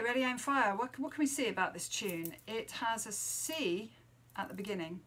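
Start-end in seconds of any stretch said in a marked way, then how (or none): 0.0-0.8 loud and higher, like giving a command; called-out title. Shown as a demonstration. Teacher announcing the tune title, loud commanding call. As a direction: call it out like a firing order.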